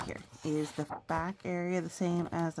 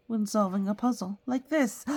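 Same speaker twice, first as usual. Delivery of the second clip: higher and much louder; excited cookie; 6 semitones higher, 9 dB louder than usual. Acted. The cookie getting excited telling the child about solving puzzles. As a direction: build up to the big moment.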